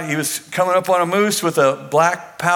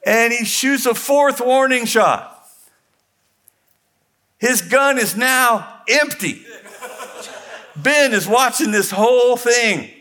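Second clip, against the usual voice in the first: laughing; 8 semitones higher than usual. Real, not acted. Laughing through the tense story.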